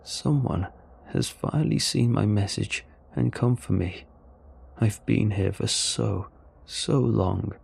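lightly voiced weary, relieved alien; measured alien voice, lingering at the end; a hint of a long-stranded alien. Story's alien speaks.

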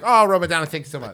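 high, breathless Oh then falling away to near nothing; overwhelmed gratitude, trailing off; gushing thanks. Retold or imitated. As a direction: swoon over the name, then fade out. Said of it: "I'm like".

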